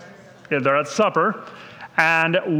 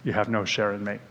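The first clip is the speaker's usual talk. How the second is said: corrected quote; 8 semitones lower, 6 dB quieter, faster than usual. Retold or imitated. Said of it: "He said".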